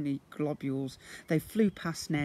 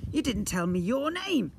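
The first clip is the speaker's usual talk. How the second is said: creature voice; 8 semitones higher, 5 dB louder than usual. Acted. Slime remarks.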